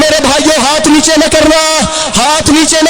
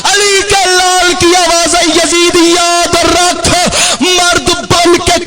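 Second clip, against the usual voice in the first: soaring proclamation; slower than usual. Acted. Preacher crying out Husain's words to the mourners, soaring. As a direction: stretch every phrase to the crowd.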